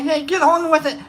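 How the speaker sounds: imitated impatient prodding, held back; mildly nag, imitating a heckler; mock nagging. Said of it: "you made fun of me".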